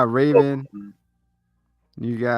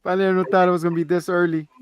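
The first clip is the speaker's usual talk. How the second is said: mock sentimental dad; 4 semitones higher than usual. Dad seeing his son off, mock tearful. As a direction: play the proud dad letting go, rushing the end. Dad's farewell, retold.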